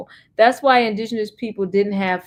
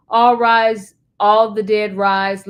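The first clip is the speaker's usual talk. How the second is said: loud, commanding call to rise; booming court summons; 6 dB louder, slower than usual. Retold or imitated. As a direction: call it out like a bailiff summoning the dead.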